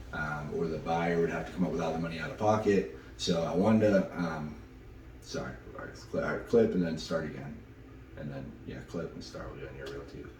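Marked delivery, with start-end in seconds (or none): 5.2-10.3 hushed, half-whispered aside off camera; softly telling the crew to clip and start over; quiet aside. Real, not acted. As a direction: drop to a low murmur to someone nearby. Off-camera aside before restarting take.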